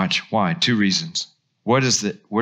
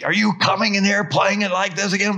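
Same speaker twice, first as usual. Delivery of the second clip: higher, exasperated teacher scolding; angry teacher; 10 semitones higher, faster than usual. Retold or imitated. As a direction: scold like a fed-up piano teacher. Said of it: "your teachers get angry".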